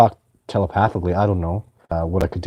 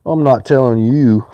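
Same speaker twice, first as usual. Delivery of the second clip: coy refusal; 4 semitones higher, 7 dB louder, slower than usual. Retold or imitated. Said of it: "he goes".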